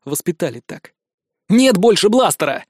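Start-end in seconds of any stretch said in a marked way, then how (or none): 1.5-2.6 loud shout. Acted. Hero shouts at the pinned bandit. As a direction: yell it at the bandit. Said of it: "закричал я".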